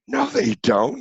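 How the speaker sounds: put-on high, indignant teen girl voice; mock daughter squeaking no, they don't; daughter's retort. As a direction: push back as the shocked daughter. Daughter protesting in retold argument.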